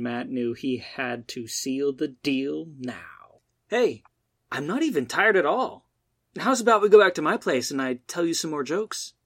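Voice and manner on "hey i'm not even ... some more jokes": eager hopeful pitch. Acted. Matt tries to seal the deal.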